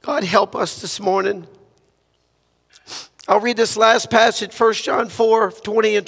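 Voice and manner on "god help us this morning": earnest prayer. Acted. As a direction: pray for the church with humble sincerity. Leads a prayer.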